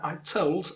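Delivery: stressed syllable on "told". Shown as a demonstration. Teacher showing learners the stressed verb, stress on "told". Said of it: "so you stress that".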